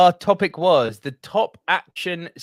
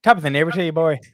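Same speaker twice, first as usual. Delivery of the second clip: put-on Irish accent; 2 semitones lower, 4 dB louder, much faster than usual. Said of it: "no more attempts at terrible Irish accents".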